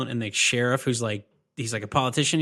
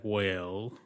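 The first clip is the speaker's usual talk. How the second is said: very slow Southern-aristocrat drawl, trailing softer; Doc Holliday; 2 semitones lower, 5 dB quieter, much slower than usual. Retold or imitated. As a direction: draw each word out, with long pauses. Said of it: "the Doc Holliday voice".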